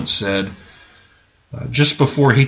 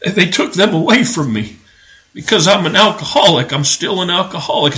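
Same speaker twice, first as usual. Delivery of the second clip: higher-pitched, mildly hammed-up heartbreak; mock heartbreak; 4 semitones higher than usual. Preacher imitating the alcoholic father, mock heartbroken. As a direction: put on a touch of fake heartbreak. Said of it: "hear the heartbreak in this guy's voice".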